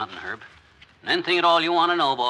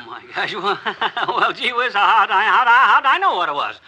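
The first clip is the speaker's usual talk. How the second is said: embarrassed laughter, voice climbing higher; sheepish laugh; 5 semitones higher, 5 dB louder than usual. Acted. McGee caught shooting Doc's car, sheepish nervous laughter.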